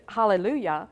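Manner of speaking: a loud, joyful Hallelujah; mock shout of joy. Glad the girl's boyfriend left, a loud joyful cry. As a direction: cheer it out like a praise shout. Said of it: "I just wanted to shout and scream".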